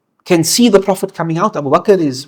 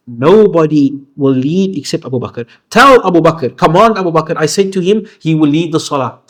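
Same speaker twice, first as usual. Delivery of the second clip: firm, insistent, a bit louder; emphatic; 3 dB louder than usual. Retold or imitated. Prophet firmly insisting Abu Bakr lead prayer, emphatic. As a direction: leave no room for argument. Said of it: "And he is emphatic".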